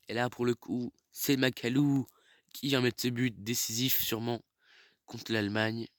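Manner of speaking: excited sports commentary. Real, not acted. Celebrating the decisive goal.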